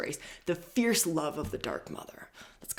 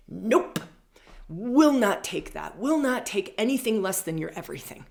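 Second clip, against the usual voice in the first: firm, louder, emphatic refusal; higher, forceful voice of a sword-wielding goddess; dark feminine; 4 semitones higher, 5 dB louder than usual. Acted. Dark feminine with her sword out refusing, firm and loud. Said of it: "the dark feminine with her sword out, just saying".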